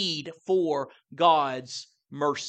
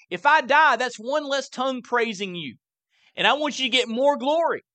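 mildly acted plea, higher pitch; pleading; 5 semitones higher than usual. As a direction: plead earnestly as David, lightly voiced. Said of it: "So it's a God-centered, uh, pleading for mercy".

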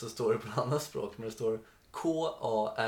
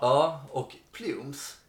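put-on Skåne accent; 4 dB louder, much slower than usual. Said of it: "det enda jag kan säga på skånska".

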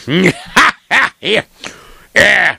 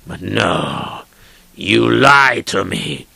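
accusing master; 4 semitones lower than usual. Acted.

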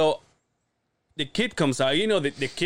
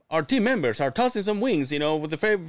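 higher, upbeat mock announcer; hold-message announcer; 6 semitones higher than usual. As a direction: sell it like a recorded promo. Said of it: "like the, the, the voice".

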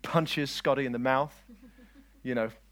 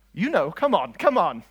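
loud, insistent prodding; urging the audience; 4 semitones higher, 9 dB louder than usual. Real, not acted. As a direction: call out for a response. Prodding congregation for a response.

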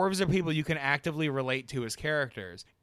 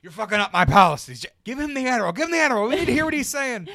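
laughing mock panic; 8 semitones higher, 6 dB louder, faster than usual. Mock urgent staff voice.

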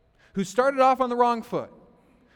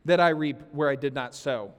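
mock-incredulous jab, trailing off lower; sarcastic; 7 semitones lower than usual. Master scolding his lazy servant, sarcastic. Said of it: "this is sarcasm".

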